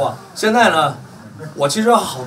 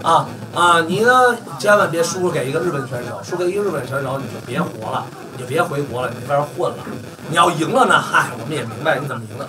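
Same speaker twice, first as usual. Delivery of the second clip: 1 sneering mimicry. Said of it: "来一句什么".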